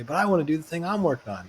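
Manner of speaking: lightly acted insistence; mock protest. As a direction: object like a stubborn bandmate. Acted back-and-forth quarrel between bandmates.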